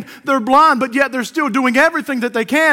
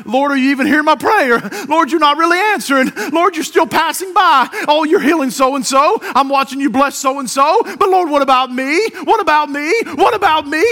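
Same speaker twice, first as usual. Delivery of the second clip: high, urgent plea; pleading complaint; 5 semitones higher, 4 dB louder than usual. Acted. Believer praying and feeling passed by, pleading. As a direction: plead with rising insistence. Voices frustrated prayer to God.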